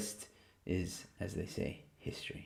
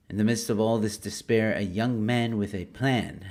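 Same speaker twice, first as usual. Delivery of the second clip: movie trailer voice; 4 dB louder than usual. Acted. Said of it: "I'm gonna try and do a movie voice for this".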